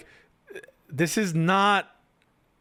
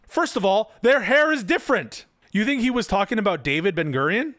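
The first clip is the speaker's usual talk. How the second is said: pitched-up, incredulous correction; indignant rebuttal; 5 semitones higher than usual. Real, not acted. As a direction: object with raised pitch and real disbelief.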